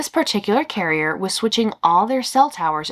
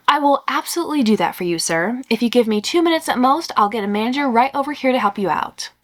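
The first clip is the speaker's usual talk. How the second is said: pleasant but confused; 4 semitones higher than usual. Retold or imitated. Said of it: "I say, still pleasant, but probably sounding confused".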